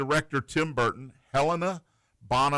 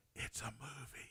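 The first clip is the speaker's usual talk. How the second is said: very quiet, soft, hushed whisper; 2 semitones lower, 23 dB quieter than usual. Reminding another speaker that a film role is not real: whispering. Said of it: "I'm gonna whisper this".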